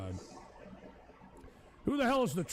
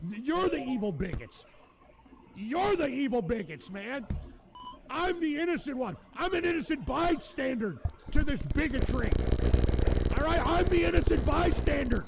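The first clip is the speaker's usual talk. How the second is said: higher, insisting on his innocence; indignant protest; 5 semitones higher, 4 dB louder than usual. Real, not acted. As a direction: protest you're the victim, building.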